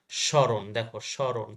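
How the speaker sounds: স্মরণ said shõ-ron, no m sound; nasalised first syllable. Shown as a demonstration. Teacher shows students silent ম, স্মরণ as shõ-ron. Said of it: "চন্দ্রবিন্দু আছে".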